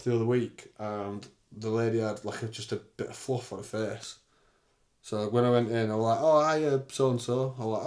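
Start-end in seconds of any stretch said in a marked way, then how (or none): 6.2-7.6 bright greeting. Retold or imitated. Cheery greeting in retold story.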